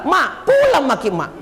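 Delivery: lightly voiced child telling mama to go; playful kid nagging mama, laughing; a hint of a child's whine; child pleading. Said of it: "Dia bilang".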